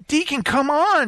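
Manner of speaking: high mock plea of the wife; pleading wife.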